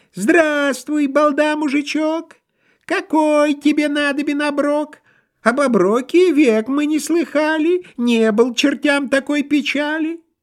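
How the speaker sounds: very high, hungry-kitten mewing voice. A young imp surfaces from the sea to greet a peasant, mewing like a hungry kitten. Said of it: "Вынырнул подосланный бесенок. Замяукал он, как голодный котенок, ... Замяукал он, как голодный котенок".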